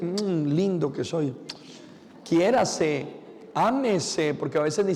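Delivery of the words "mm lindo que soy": slow, pleased coo to oneself; self-loving coo. Shown as a demonstration. Priest shows the congregation how to kiss themselves, cooing slowly. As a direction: savor it like blowing yourself a kiss. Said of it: "dese un besito".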